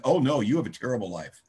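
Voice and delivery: a hint of teasing pity; mock sympathy. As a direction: tease him about his terrible life, lightly. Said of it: "He used to say things like".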